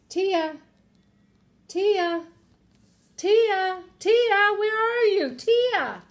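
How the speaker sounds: high, loud searching calls; building shouts across a store; calling out. A narrator's reading. Father searching for lost daughter.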